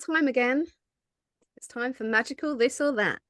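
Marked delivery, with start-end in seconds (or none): 1.6-3.2 host announcing the segment; game show voice. Acted. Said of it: "I put on my game show voice".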